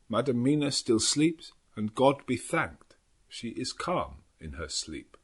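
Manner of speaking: a lightly voiced old Dutch professor, grave and weary; Van Helsing voice. A narrator's reading. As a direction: read it as the old doctor, measured and tired. Van Helsing's memorandum read in voice.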